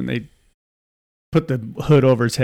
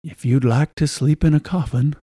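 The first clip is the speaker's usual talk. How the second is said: lightly voiced, deliberate creepy offer; a hint of a creepy undertaker; creepy mortician. Mortician offering the girl a coffin to sleep in, mildly creepy. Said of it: "kind of a creepy guy".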